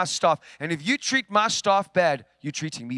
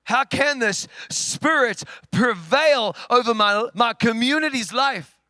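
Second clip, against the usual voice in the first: raised, slowed, indignant cry to God; retold angry prayer, raised and slow; 4 semitones higher, 4 dB louder than usual. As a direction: plead in protest, louder and higher.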